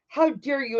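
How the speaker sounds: a hint of a scolding mom; mother scolding. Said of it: "Or she's like".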